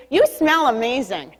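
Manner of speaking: slow, talking with the lips tucked in; drawn-out words with lips rolled inward; lips pulled in. Shown as a demonstration. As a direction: say it slowly through pulled-in lips. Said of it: "Pull your lips in and say".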